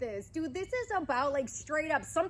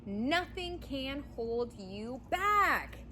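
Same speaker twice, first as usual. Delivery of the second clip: each word drawn out slowly; slow emphatic promise; slow and deliberate; much slower than usual. Real, not acted. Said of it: "you got this".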